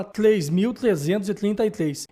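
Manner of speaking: "três mil trezentos e trinta e três" with "tr" turned to "tl"; mispronounced R. Retold or imitated. Host citing own past mistake to the speech therapist, R said as L. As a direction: imitate the old speech fault in "três mil trezentos e trinta e três": "tlês", "tlinta". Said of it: "eu falava".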